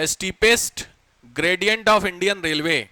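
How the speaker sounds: extremely slow, stretched words; slow dictation. Shown as a demonstration. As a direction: drag it out so everyone can write. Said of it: "लिखो ध्यान से". (बहुत धीरे लिखवाते हुए)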